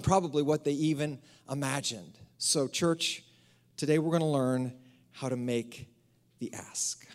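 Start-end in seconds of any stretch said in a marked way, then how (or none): 5.1-7.1 hushed. Acted. Trailing emphatic close.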